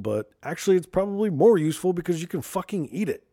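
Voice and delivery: rising rant. Real, not acted. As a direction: build into a mock-outraged rant. Ranting about gold's uselessness.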